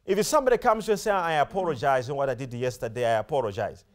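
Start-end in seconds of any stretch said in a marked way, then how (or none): 1.1-3.8 imitating a low, monotone, insincere apology; perfunctory apology. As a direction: rattle off a mock apology without remorse, pitched low. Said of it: "these two apologies are, t-, are different".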